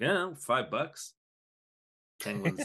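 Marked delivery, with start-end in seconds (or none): 0.0-1.1 scrap guy. Retold or imitated. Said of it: "they're like".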